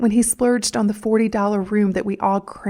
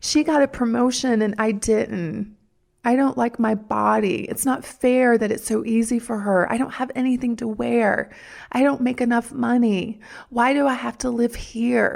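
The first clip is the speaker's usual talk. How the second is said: grumbling whine; 2 semitones higher than usual. Demonstrating examples of whining complaints, whining. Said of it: "Do you like my whining?".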